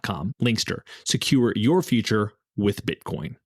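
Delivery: polished, scripted podcast ad delivery; sponsor ad read. Acted. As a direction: read the sponsor spot crisply, selling the service.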